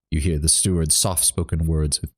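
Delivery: reading through hiccups; hiccupy read. Real, not acted. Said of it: "hiccuping again".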